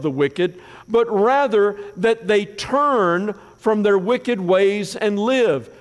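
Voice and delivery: measured, solemn reading of God's words; a lightly heightened Bible reading; scripture reading. Acted. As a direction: read it as a proclamation, slowing at the end. Reads scripture aloud.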